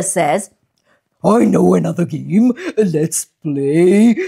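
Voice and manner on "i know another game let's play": low anteater voice. Acted.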